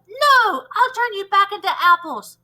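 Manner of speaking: threatening teacher. Acted. Teacher threatens the freed children, angry. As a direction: threaten them back fiercely.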